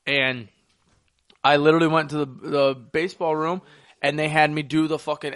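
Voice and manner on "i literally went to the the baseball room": ordinary delivery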